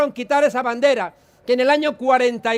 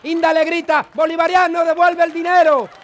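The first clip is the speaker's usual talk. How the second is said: comisario yelling; 4 semitones higher than usual. Acted. Comisario Maruenda yelling insults at the dead man, hammed-up shout. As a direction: bark the insults like a torturer. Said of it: "El comisario Maruenda le grita".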